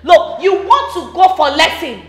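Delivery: loud scolding mockery. Stepmother to stepdaughter, a loud scolding jeer. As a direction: scold her for wanting lessons.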